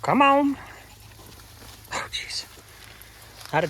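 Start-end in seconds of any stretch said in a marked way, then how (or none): 0.0-0.6 very high drawn-out come on; high coaxing call. Real, not acted. Calling goats through gate. 1.9-2.5 breathy whispered oh jeez; whispered aside. Real, not acted. Exasperated aside.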